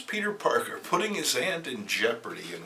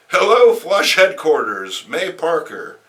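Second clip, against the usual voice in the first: a hint of old aunt; lightly voiced aunt answering the phone; barely raised aunt voice; wrong take; 5 semitones higher, 13 dB louder than usual. Shown as a demonstration. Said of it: "I did it wrong".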